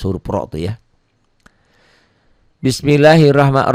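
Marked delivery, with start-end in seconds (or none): 2.6-3.7 Bismillahirrahmanirrahim with a heavy, rounded "ro" in "rahman"; thick Ro. Shown as a demonstration. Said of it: "Ro-nya dibaca tebal".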